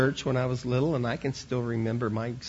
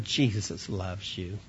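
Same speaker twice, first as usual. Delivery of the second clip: lower, slow and tender, voiced; gentle aside; 5 semitones lower, 4 dB quieter, slower than usual. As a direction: drop down and say it gently to the child. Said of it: "that I whispered in his ear".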